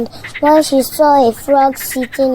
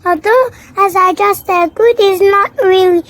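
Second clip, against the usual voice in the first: higher, bright-eyed chatter; chatty Little Miss Chatterbox; 4 semitones higher than usual. Acted. Chatterbox greets Miss Bossy at the post office, higher chatty voice. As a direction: gush a cheery greeting.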